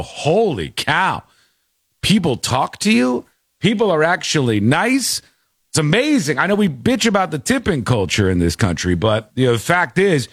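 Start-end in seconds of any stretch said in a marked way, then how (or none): 0.0-5.2 slow, awed mock tourist; amazed tourist. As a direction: gush like a stunned visitor. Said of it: "and you'll go".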